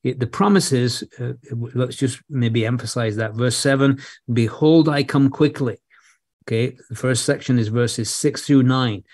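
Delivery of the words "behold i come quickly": "Behold," lifted and loud, then "I come quickly." firmly; emphatic quote. Shown as a demonstration. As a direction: call out "Behold," to stress the promise. Emphasizes the promise.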